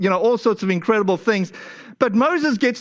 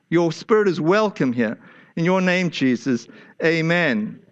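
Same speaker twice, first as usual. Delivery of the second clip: lower, hushed prayer voice; earnest pastoral prayer, slowed down; spoken prayer; 3 semitones lower than usual. Acted. Leads a prayer.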